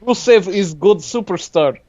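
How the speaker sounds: put-on Russian accent. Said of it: "the worst Russian accent".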